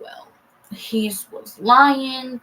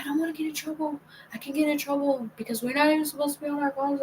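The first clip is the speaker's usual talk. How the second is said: hushed, higher imitation of her; girlfriend's excuses; 5 semitones higher, 4 dB quieter, faster than usual. Girlfriend explaining why she can't call, mimicked high, soft and hurried. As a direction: mimic her quietly pleading not to get caught.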